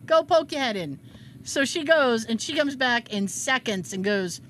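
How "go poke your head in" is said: mocking. Mocking permission.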